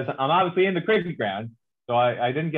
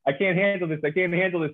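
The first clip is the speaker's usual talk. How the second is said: hammed-up refusal to believe, a bit higher and faster; mock denial; 4 semitones higher than usual. Cricket insider who can't accept an American, mock panicked denial. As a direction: play the cricket fan plugging his ears in disbelief. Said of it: "there's this denial, this refusal to accept".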